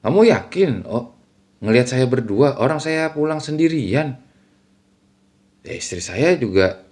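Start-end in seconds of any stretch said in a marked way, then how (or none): 0.1-4.2 pressing questions with a higher lift; retold emphatic questioning; mildly insistent. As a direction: push back on the doubt, mildly. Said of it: "agak sedikit kayak menekankan".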